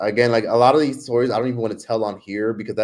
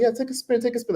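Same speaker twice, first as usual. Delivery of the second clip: much higher, coaxing sing-song; playful flirt; 13 semitones higher than usual. Retold or imitated. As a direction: urge her high and teasing. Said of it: "He was like".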